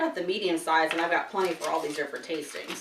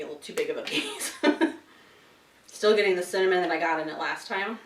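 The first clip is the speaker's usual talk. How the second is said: talking through a mouthful of chocolate; words round a bite of chocolate; mouth full. Real, not acted. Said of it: "Not to be talking with my mouth full".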